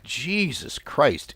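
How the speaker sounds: long-suffering "give me strength"; exasperated. Retold or imitated. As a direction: draw it out in weary disbelief. Exasperated reaction to followers' questions.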